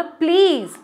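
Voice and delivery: fed-up plea to stop; annoyed begging please; irritated please. Shown as a demonstration. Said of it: "बहुत ज़्यादा irritate कर रहे हैं".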